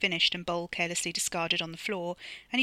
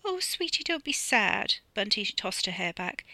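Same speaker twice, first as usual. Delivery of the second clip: put-on high, sweet girlish voice; Bunty's voice; 6 semitones higher than usual.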